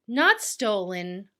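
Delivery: slow, nervous mock protest; timid voice, said slowly; scaredy cat. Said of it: "is a big scaredy cat and says".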